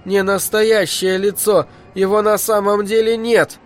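put-on high, fragile little child's voice; Дэнни, breaking child's voice. A narrator's reading. Five-year-old denies the dead woman is real, high breaking voice. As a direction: pitch it up like a child whose voice is cracking. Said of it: "высоким, хрупким, ломающимся голосом ребёнка".

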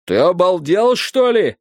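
indignant outburst; flaring up. A narrator's reading. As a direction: flare up in disbelief. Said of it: "взвился Страйк".

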